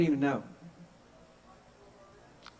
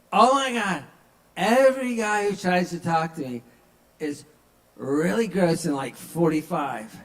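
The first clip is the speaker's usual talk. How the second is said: put-on drunk woman; 4 dB louder than usual.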